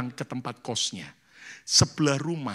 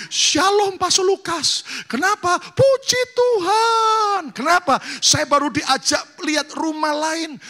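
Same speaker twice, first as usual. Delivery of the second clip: much higher and loud, near crying; excited caller; 13 semitones higher, 6 dB louder than usual. Retold or imitated. Bride phoning pastor next morning, high excited shout. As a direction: burst out the good news breathlessly.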